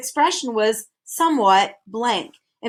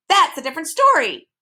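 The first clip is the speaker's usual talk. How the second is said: a bit more amiable; 7 semitones higher, 5 dB louder than usual. A narrator's reading. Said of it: "a bit more amiably".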